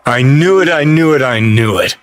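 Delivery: rising gleeful repetition that drops at the end; triumphant outburst; excited triumph. Acted. Crowing at being proved right.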